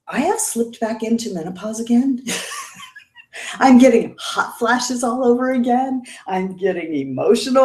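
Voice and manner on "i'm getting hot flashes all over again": laughing through the words; a real laugh breaking into the line. Real, not acted. To her live chat, laughing at her own hot flashes.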